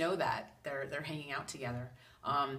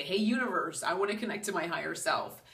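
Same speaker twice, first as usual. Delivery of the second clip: calling out to the universe; 4 semitones higher, 5 dB louder than usual. Shown as a demonstration. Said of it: "sit there and say".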